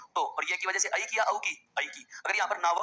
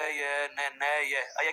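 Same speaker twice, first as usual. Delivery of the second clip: slow-motion reading; 3 semitones lower, much slower than usual. Shown as a demonstration. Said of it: "slow motion में पढ़िए".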